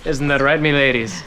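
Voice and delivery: put-on Scottish accent. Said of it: "most women love my accent".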